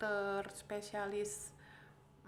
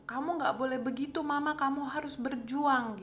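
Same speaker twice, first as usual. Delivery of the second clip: husband's urgent plea, slightly raised; retold urging; 4 semitones higher, 5 dB louder than usual. Husband urges his sick wife to keep fighting, retold insistent plea. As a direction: imitate his insistent encouragement, higher and louder.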